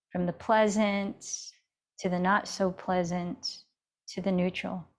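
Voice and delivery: calm, even yoga-teacher guidance with long pauses; guided meditation. Real, not acted. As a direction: guide them gently inward, leaving space between phrases. Leads a seated meditation.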